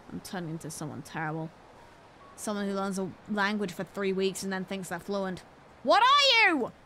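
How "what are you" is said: high question. Acted. Asking the game a question.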